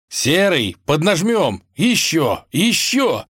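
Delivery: high, urgent prince cheering effort on; straining, eager exhortation; urging on. A narrator's reading. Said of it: "приговаривал царевич".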